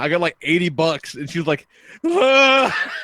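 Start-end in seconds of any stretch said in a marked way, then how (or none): 2.1-2.9 high, loud laughing shriek. Retold or imitated. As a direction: let out a sudden delighted laughing shriek. Zoe reacts to cash offer.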